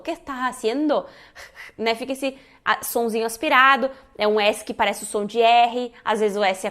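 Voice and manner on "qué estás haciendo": "estás" said as "ehtah" in "¿Qué estás haciendo?"; aspirated S. Shown as a demonstration. Teacher repeating the example for students, S aspirated to H. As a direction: breathe out the S of "estás" like an H. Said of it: "se tu fizeres o S aspirado".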